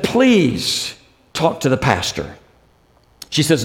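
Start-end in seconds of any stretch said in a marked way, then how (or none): 0.0-2.4 softer, falling, half-broken plea; a dying mother begging through tears, softly; tearful plea. Retold or imitated. Crying mother begs her daughter to talk to pastor, tearful plea. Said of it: "her mom starts crying".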